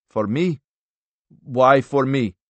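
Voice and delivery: mildly startled character voice; taken aback. A narrator's reading. Man surprised to be targeted.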